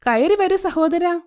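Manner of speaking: mother-in-law faking warmth to the visitors; sweetly welcoming. A narrator's reading. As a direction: greet the guests with put-on sweetness. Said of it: "Padma ഇങ്ങനെ പറയുന്നു".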